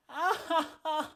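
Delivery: high, drawn-out mock crying; hammed-up wailing laugh. Hammed-up wail after being mad.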